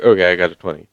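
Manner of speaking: offhand, unexcited claim of a twenty; deadpan casual announcement of a roll; casual fake report. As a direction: read off the roll calmly, like a cheater covering up. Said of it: "'Cause you know whenever somebody gets a twenty".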